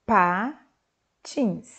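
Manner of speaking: "Patins" with a clear little burst of air on P; lip-popping demo. Shown as a demonstration. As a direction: show the lips closing and popping on "Patins". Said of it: "Percebeu o movimento dos seus lábios?".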